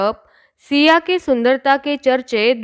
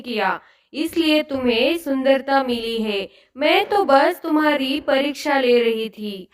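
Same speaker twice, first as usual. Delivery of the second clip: softer, gentle fairy praising; lightly voiced fairy, softer and kind; 3 dB quieter than usual. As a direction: speak tenderly like a fairy godmother.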